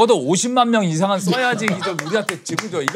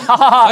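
loud, higher put-on guffaw; demonstrated full laugh; 5 semitones higher, 9 dB louder than usual. Shown as a demonstration. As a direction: demonstrate a big, open laugh. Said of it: "Laugh and". (크게 웃는 시범)

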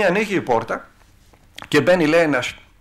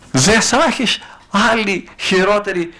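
slow, loud demonic threat in an alien voice; demon shouting; 2 semitones higher, 5 dB louder, slower than usual. Retold or imitated. Possessed woman screaming outside the confessional, in a slow loud demonic voice. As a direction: growl out the threat like the devil himself. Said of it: "να φωνάζει".

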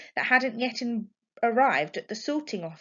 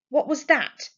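alarmed; 7 semitones higher, 7 dB louder than usual. A narrator's reading. Mother hears the door slam.

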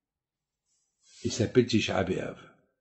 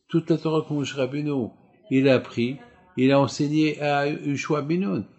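ordinary talk, nothing marked

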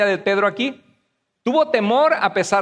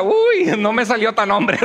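teasing impression of an unimpressed wife; imitated wife; 3 semitones higher than usual. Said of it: "Y dice mi esposa".

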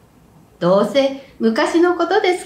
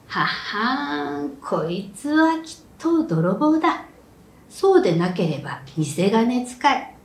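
scheming peasant. Acted. Rokubei scheming to himself.

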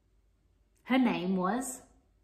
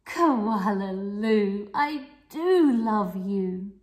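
slow, fond and a little louder; smiling mother; 5 dB louder, slower than usual. Acted. Mother koala smiling at her baby, loving. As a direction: smile it to your baby. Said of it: "her mother would smile and say".

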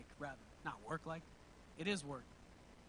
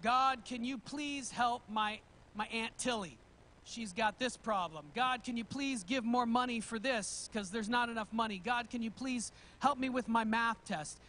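rattling off a list; listing intonation. Retold or imitated. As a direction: reads each request like a checklist. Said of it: "your prayer feels like you're just reading off a list to God".

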